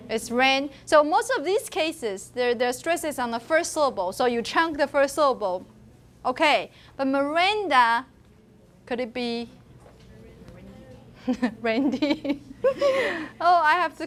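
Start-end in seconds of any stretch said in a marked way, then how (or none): 5.1-14.1 laughing as the word comes out. Real, not acted. Teacher tests an absurd nickname on the class, laughing. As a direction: offer it doubtfully, then crack up.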